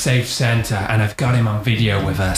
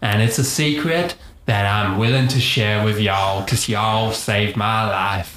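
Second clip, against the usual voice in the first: put-on Texan accent. Santa confessing his real accent to his rescuers, Texan accent. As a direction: share a secret in a stretched Texan accent. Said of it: "but really I'm from Texas".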